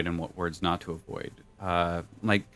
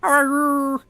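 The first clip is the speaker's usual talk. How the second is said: very high, loud caricature of an Asian accent; exaggerated cartoon Asian accent, pitched way up; cartoonish Asian accent; 7 dB louder than usual. Shown as a demonstration. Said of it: "That's how you get the cartoonish ones".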